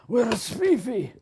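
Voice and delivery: squeaky worried pet voice; voicing the cat. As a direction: plead for Fifi as the fretful cat. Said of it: "he doesn't know where Fifi is".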